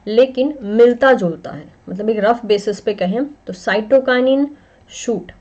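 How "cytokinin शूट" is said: "cytokinin", then "शूट", each drawn out slowly; sound-alike demo. Shown as a demonstration. Teacher giving a memory trick, slow separated "cytokinin" and "शूट". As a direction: stretch "cytokinin" and "शूट" apart so their opening S and SH can be compared. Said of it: "थोड़ा बहुत मिलते जुलते sound करते हैं".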